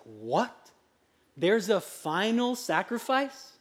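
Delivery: hushed, incredulous question; imitated disbelief. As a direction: act out stunned listeners, slowly taking it in. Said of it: "their faces like".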